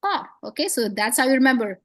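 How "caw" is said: mock raven cawing. Teacher imitating a raven for students, cawing. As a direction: caw like a raven, repeated. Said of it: "What's the sound of a raven".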